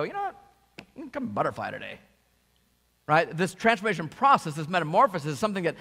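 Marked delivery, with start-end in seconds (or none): 0.0-2.0 squeaky start then quick mumble; caterpillar voice. Pretend. Pastor jokingly voices a caterpillar, quick and light. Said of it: "a caterpillar doesn't just sit there and go".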